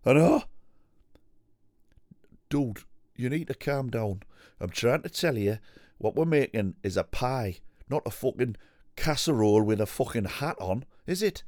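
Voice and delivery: bouncy northern cookery-show host. Pretend. Voicing a Hairy Biker.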